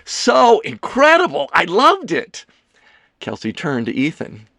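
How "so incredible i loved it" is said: high, loud burst of delight; gushing. A narrator's reading. Leo gushing to Kelsey about the show, high and excited. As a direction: gush with soaring enthusiasm. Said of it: "Leo gushed".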